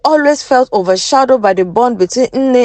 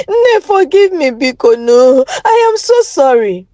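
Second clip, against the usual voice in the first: tearful pleading; 2 semitones higher than usual. Acted. Guilty wife begging husband and rival, still tearful. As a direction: keep crying as you beg forgiveness. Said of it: "Obi continued crying".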